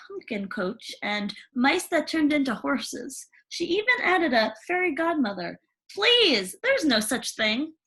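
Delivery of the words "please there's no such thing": higher, dismissive scoff; scoffing stepmother. Acted. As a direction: brush it off as nonsense.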